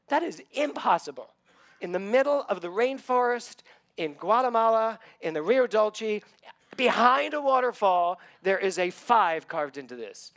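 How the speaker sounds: high, loud astonished exclamation; retelling a moment of awe; amazed disbelief. Retold or imitated. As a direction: build the wonder phrase by phrase. Amazed at the carved five.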